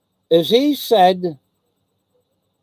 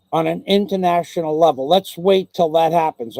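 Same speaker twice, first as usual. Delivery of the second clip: mocking quote. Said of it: "the first one was".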